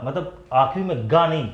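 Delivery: गा said with a hard g at the end; गा sounded out with a g; wrong ending ga. Shown as a demonstration. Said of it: "ये नहीं, मतलब इसको हम लोग सिंग". (अंत में "गा" के साथ गलत उच्चारण)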